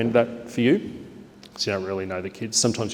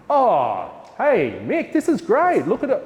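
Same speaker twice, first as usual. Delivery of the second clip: much higher, louder, gushing praise; big positive voice; 12 semitones higher, 4 dB louder, slower than usual. Shown as a demonstration. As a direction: make a big show of praise. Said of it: "the bigger voice and the bigger gesture".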